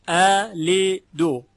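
اعلدو slow and loud, broken into parts, second hamza eased; deliberate, drawn-out اعلدو with a loosened second hamza; syllable-by-syllable tasheel. Shown as a demonstration. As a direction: spell out اعلدو by syllables, softening the second onset.

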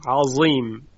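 عظیم with a heavy emphatic z, Egyptian style; Egyptian colloquial. Shown as a demonstration.

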